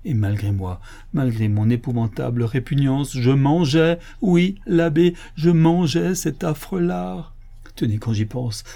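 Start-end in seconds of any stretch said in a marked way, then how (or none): 3.2-7.3 loud, high, slowing cry of revulsion; horrified confession. Acted. Canon confessing the nightmare meal to the abbot, horrified. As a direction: confess it in rising horror, drawing it out.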